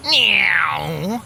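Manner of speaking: high playful meow; cat meow. Acted. Fitz demonstrating the drone speed trick with a playful meow. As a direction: meow like a kitten. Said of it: "If you go".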